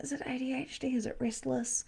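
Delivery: voiceless whisper to herself. Real, not acted. Reader puzzling over the man's restlessness, whispered. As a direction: wonder aloud in a hush. Sensing a spirit, wondering aloud.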